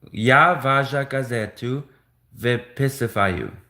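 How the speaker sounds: Я вашу газету выписываю slowed, Я lifted at the start; careful retry. Shown as a demonstration. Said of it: "I don't think I'm saying that right".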